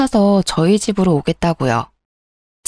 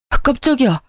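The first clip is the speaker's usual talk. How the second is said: startled yelp; 5 semitones higher than usual. Acted. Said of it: "귀신을 본 것처럼 비명을 질렀어요".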